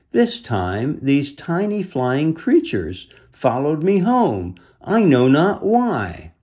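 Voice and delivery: a hint of a gravelly beast voice; lightly voiced great beast, slow and heavy; understated gravelly creature; deep gravelly voice. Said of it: "it said in a deep, gravelly voice".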